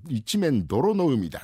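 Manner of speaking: put-on very slow, toothless old sage; lightly voiced doddering elder; creaky wise old man. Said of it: "入れ歯がガッタンガッタン外れながらね".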